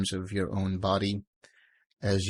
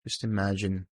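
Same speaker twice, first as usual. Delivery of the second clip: guided meditation. Real, not acted. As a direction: guide them gently into calm, phrase by phrase, leaving silence between.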